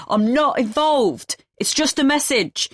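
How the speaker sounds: man fleeing, yelling back over his shoulder; shouting over his shoulder. A narrator's reading. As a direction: fling it back while running away. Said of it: "He shouts over his shoulder".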